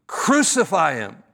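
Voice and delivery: mild imitation of a shriek; hint at a screaming mob without really shouting; mock scream. Shown as a demonstration. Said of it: "They were screaming, shrieking".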